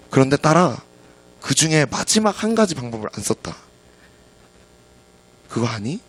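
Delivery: lightly voiced tender father; warm comforting. Dad hugs and comforts crying daughter, warm. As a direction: console a child, understated and calm. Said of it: "아빠는 따뜻하게 이렇게 막 끌어안으면서".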